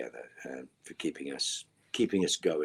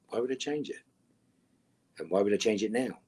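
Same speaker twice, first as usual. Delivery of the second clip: mock indignation; 6 semitones higher, 5 dB louder than usual. Real, not acted. Mock outrage at question.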